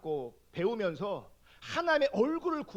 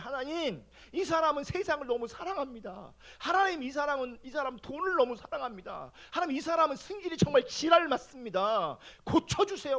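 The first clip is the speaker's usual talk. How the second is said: irritated prayer; 3 semitones higher than usual. Retold or imitated. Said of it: "제 마음에 막 승질이 나요".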